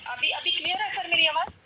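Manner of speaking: faint voice on a weak line; soft, distant remote caller; barely audible. Real, not acted. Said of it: "clear अभी थोड़ी सी कम है".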